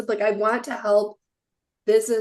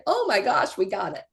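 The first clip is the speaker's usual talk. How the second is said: excited caller. Retold or imitated. Caller announcing a win months down the way, lightly acted excitement. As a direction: briefly imitate a thrilled caller. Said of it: "our callers get so excited".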